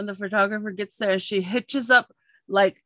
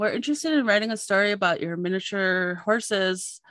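reporter voice. Retold or imitated. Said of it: "you use your reporter voice".

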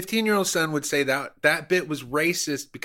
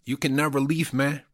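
mock Cuban accent. Comedian bragging to cohost about being inside Hollywood, in a mock Cuban accent. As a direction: play a fake Hollywood Cuban tough guy in a Cuban accent. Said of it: "I was using an accent".

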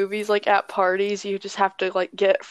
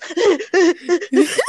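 imitating laugh; 7 semitones higher, 4 dB louder than usual. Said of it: "laughing, and then she goes".

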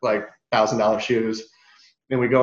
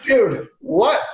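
retold disbelief; 10 semitones higher than usual. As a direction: react with incredulous shock. Retold shock at knocking doors.

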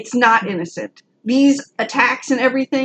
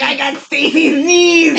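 show lady; 3 semitones higher than usual. Pretend. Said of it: "Or, like, the show lady".

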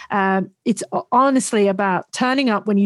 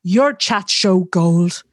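slow emphatic praise; much slower than usual. Retold or imitated. Retelling chat host's interruption.

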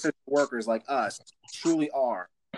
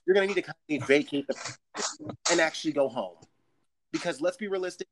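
polite announcement. Retold or imitated. Worker lecturing shoppers, mildly polite but firm. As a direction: keep it sweet while scolding. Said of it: "I say it as politely as possible".

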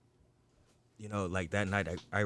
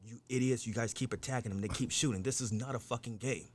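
retold yelling at teens; 4 semitones higher than usual. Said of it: "I'm still yelling".

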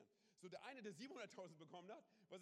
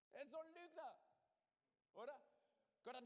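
much higher, louder outrage; outraged; 10 semitones higher, 4 dB louder than usual. Real, not acted. Preacher exclaims at the serpent's lies, high and outraged. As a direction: cry out at the liar, indignant.

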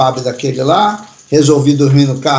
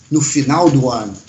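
firm; 3 semitones lower than usual. Retold or imitated. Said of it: "falei bem firme".

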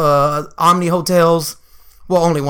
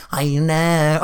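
mock white girl; 3 semitones lower than usual. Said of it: "she acts really white".

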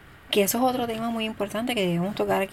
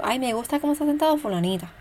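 sugary, fast, higher mock praise to a child; imitating a parent being condescending; 5 semitones higher, faster than usual. Parent praising one child to compare, condescending and sugary. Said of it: "Siendo condescendiente".

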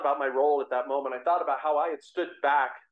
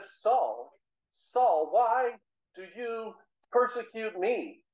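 voice of the Lord; 5 semitones higher, much slower than usual. Acted. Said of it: "and the voice said".

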